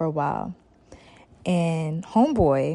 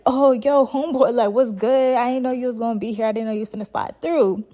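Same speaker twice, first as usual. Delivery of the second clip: surprised friendly greeting; 5 semitones higher than usual. Retold or imitated. Roddy surprised greeting rival.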